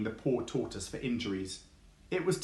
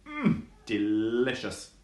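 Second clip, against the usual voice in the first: savouring mm; slower than usual. Acted. Fox eating worms.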